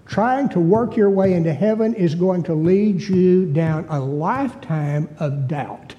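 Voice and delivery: deliberate, weighted sermon delivery; emphatic preaching. Real, not acted. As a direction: preach it slowly and firmly, word by word. Preaches on grace.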